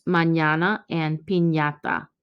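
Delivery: mañana and piñata with ñ as ny, as in canyon; Spanish ñ sound. Shown as a demonstration. Teacher showing the ñ sound in mañana and piñata. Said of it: "pronunciation of Nye".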